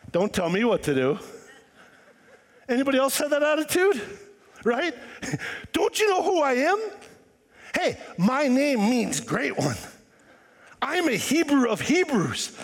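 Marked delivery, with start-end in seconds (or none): 0.1-1.2 defiant. Retold or imitated. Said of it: "you know what I would have said". 5.7-12.6 boasting. Retold or imitated. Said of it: "he was boasting".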